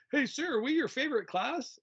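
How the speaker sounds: put-on high, eager kid's question. Pupil asking the teacher, high eager kid voice. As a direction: ask it like a keen pupil hoping for yes. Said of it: "when kids would literally go".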